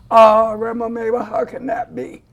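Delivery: a loud "Oh" then a breathy doubting question; playing the boy who can't believe it; incredulous boy. Grandma voicing the boy as he asks her in disbelief.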